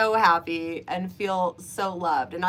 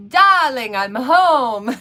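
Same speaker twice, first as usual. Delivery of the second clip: cute voice; 3 semitones higher, 8 dB louder, slower than usual. Retold or imitated. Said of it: "He would do it in this cute voice".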